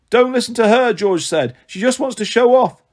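raspy snake voice. A narrator's reading. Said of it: "a raspy male voice".

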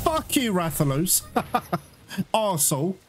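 frustrated outburst without shouting; pissed off. Real, not acted. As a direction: curse the monster in real annoyance. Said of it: "sorry I got pissed off there".

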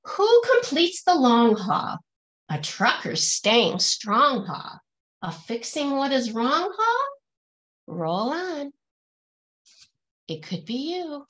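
rhythmic, lilting picture-book verse; reading to children. Acted. Teacher reading a rhyming picture book aloud to her class, lilting and rhythmic. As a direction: bounce each rhyme for the kids, then land the refrain.

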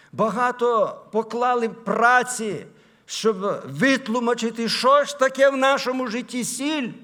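emphatic preaching, building at the end. Acted. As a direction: put the question forcefully to the congregation.

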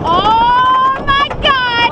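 drawn-out thrilled cry; on a roller coaster. Real, not acted. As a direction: scream it out slowly on the drop. Ride drops.

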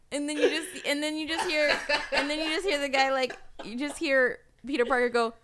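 ordinary talk, nothing marked

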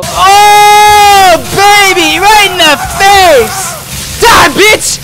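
loud, high victory yelling; triumphant shout. Real, not acted. Gamer shouting at the boss as he finally lands hits, loud triumph. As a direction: roar it as the hit lands. Landing a big hit on boss.

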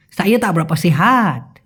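slurred Malaysian slang, last word stretched. Retold or imitated. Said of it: "আমি তারপর উত্তরে কি বললাম?".

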